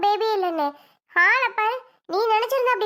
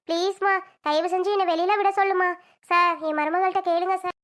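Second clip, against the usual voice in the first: a lower, lightly aged voice begging her daughter-in-law; pleading old mother-in-law; 4 semitones lower than usual. Acted. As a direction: whine about her old age, pleading. (வயதான மாமியார் கெஞ்சும் தாழ்ந்த குரல்)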